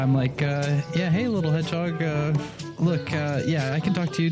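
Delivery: ordinary talk, nothing marked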